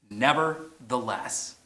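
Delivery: slow, drawn-out nevertheless; slow emphatic word. Shown as a demonstration. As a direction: stretch nevertheless out for the crowd to echo. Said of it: "Would you say that with me".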